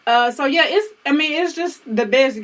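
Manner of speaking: talking around gum; chewing gum. Real, not acted. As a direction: gum in the mouth. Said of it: "I got gum in my mouth too".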